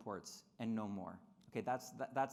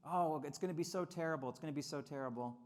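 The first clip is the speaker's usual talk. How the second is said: mock alarm. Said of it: "warns of retaliation".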